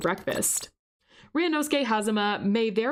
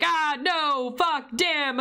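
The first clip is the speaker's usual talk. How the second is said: higher-pitched imitation of a man screaming; mock scream; 6 semitones higher, much slower than usual. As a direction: play a half-hearted scream of panic. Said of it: "he's screaming on the monitor".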